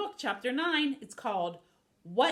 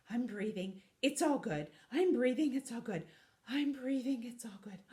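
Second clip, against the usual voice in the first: tag; 2 semitones higher than usual. Acted. Terrified shark calming himself.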